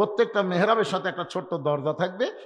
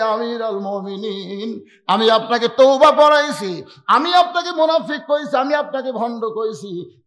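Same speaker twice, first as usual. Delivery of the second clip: frantic confession; 5 dB louder than usual. Acted. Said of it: "পাগলের মতন বলে".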